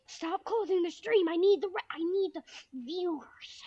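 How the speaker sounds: high, hammed-up begging; mock pleading. Streamer begs viewers to stay, high mock-desperate plea. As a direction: plead high, dragging the last words.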